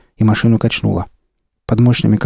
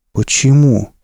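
confused question; 4 semitones higher, slower than usual. Acted. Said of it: "растерянно спросил зверь".

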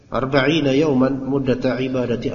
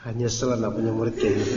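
laughing; 2 semitones lower, 4 dB quieter than usual. Real, not acted. Ustadz teasing his student, still laughing. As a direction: speak through a laugh.

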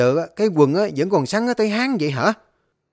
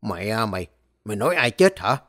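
furious rant; faster than usual. Acted. Furious master threatening servant.

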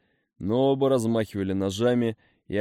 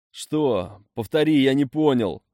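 urgent loud asking; 5 semitones higher, 6 dB louder than usual. A narrator's reading. Straining to hear dying man.

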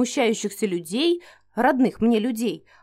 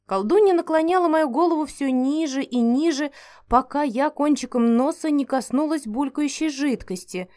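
ordinary delivery, nothing marked

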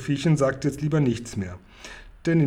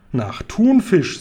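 slow and higher, savoured answer; giant voice; 7 semitones higher, 5 dB louder, much slower than usual. A narrator's reading. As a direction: draw it out like a treat.

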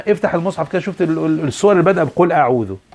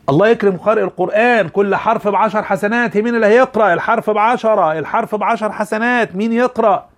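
encouraging call; 4 semitones higher than usual. Shown as a demonstration. Teacher rallying students to read.

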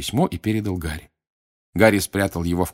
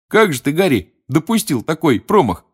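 teasing Ron; 8 semitones higher, 6 dB louder than usual. A narrator's reading. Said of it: "подмигнул Рон".

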